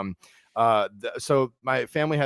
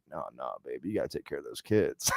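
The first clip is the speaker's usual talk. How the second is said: a low, soft hint of the old psychic; lightly voiced condescending psychic; psychic lady; 10 semitones lower, 9 dB quieter than usual. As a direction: psychic calmly scolding the young comic. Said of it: "she was like".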